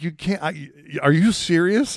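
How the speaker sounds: disbelieving. Retold or imitated. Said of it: "I'm like".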